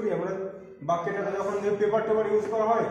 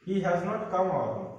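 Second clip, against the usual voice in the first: very slow, each word of "he has not come our home" set apart; slow dictation; much slower than usual. Shown as a demonstration. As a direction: dictate it word by word for students to write. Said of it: "হ্যাজের আগে not, পরে not বসিয়ে দাও". (খুব ধীরে, শব্দ ধরে ধরে বলা)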